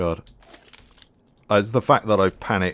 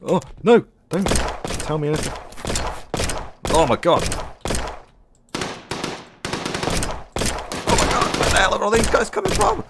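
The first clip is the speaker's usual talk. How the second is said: high frantic yelling; panicked shouting; 13 semitones higher, 5 dB louder than usual. Real, not acted. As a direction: shout in real alarm under attack. Swarmed by enemies in game.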